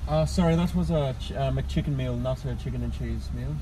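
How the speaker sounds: mild put-on Irish accent. Shown as a demonstration. Customer correcting a drive-thru order, put-on Irish accent. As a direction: hold the Irish act while correcting. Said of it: "do this order in an Irish accent".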